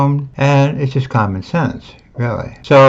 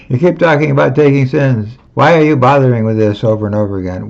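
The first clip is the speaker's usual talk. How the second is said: mocking godbrothers; 2 semitones higher, much faster than usual. Godbrothers scolding Pranjan for repeating himself, exasperated mock voice. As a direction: brush him off as a nag. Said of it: "and they say".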